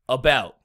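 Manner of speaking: slow "about", stressed on the second syllable; light "a", then punch "bout" in "about"; iambic stress. Shown as a demonstration.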